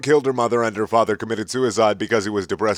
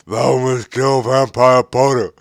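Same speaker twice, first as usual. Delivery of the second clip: slow, drawn-out villain order; lightly voiced dark lord; Voldemort command; 2 semitones higher, 4 dB louder than usual. A narrator's reading. Voldemort ordering Ebony, slow mock command. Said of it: "he yelled".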